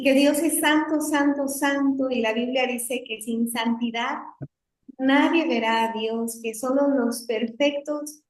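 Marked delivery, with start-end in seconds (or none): 0.0-2.1 speaking up a bit to be heard; más fuerte. Real, not acted. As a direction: project a little more for the listeners. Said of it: "voy a hablar más fuerte". (hablando un poco más fuerte)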